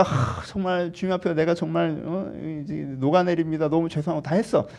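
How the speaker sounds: hammed-up contrition with a heavy breath; apologetic. Believer melting in apology before the Lord, contrite. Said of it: "죄송하다고 했어요".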